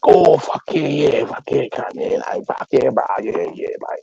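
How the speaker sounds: high-pitched eager string of yeahs; mock enthusiasm, pitched right up; imitating keen cousin. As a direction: play the cousin suddenly all approval. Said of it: "And he's like".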